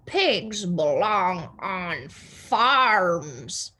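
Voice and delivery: slow, lightly stern pronouncement; Eugenia's firm opinion. Acted. Eugenia stating her opinion slowly and sternly. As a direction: lay it down slowly as fact. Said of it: "said Eugenia".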